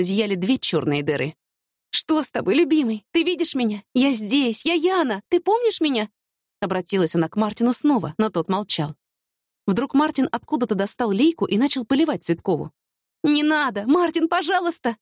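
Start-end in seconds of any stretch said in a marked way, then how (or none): 1.9-6.1 high, rising anxious questions; anxious pleading. A narrator's reading. Anxious pleading with silent beloved. 13.2-15.0 high, urgent plea; panicked begging. A narrator's reading. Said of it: "начала захлёбываться Яна".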